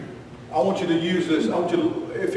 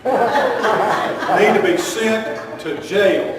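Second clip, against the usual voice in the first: laughing; 3 semitones higher, much slower than usual. Real, not acted. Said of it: "repeats punchline laughing slowly".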